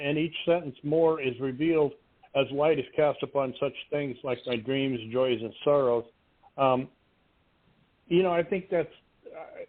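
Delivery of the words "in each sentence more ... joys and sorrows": usual speaking voice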